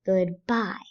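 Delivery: goodbye with good unstressed and bye stressed. Shown as a demonstration. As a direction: let good go lightly, then land on bye. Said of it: "we stress bye".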